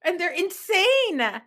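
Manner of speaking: high, laughing fan gush; laughing quote. Retold or imitated. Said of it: "I was like".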